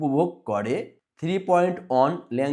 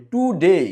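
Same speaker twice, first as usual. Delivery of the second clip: second syllable ডে of টুডে punched louder; stress on DAY; 3 semitones higher, 5 dB louder, much slower than usual. Shown as a demonstration. Teacher shows pupils the clap syllable, loud stressed ডে in টুডে. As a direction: hit ডে hard at the end of টুডে. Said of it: "ডে উচ্চারণের সময় তালি দিতে হবে".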